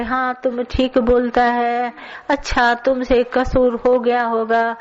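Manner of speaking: put-on slow, soothing coax to a crying child; a touch of a tender guru soothing; mock consoling.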